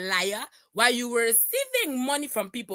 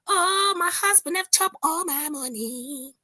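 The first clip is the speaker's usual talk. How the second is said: mock lament; 2 semitones higher than usual. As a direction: whimper the parody complaint. Parody lament between sung parts.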